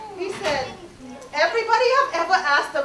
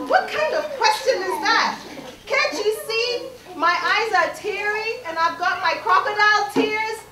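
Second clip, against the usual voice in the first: higher-pitched, mildly affronted retort; indignant crocodile; 4 semitones higher than usual. Acted. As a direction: answer as an offended crocodile. Crocodile retorts to Tembo's question.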